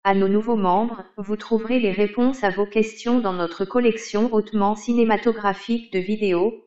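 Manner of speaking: robotic text-to-speech read; monotone computer voice reading aloud; old speech synthesizer. Acted. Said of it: "Vous avez sélectionné Microsoft Hortense Desktop".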